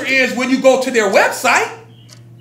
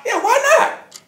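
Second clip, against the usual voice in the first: laughing; 10 semitones higher than usual. Real, not acted. Mocking exaggerated claims.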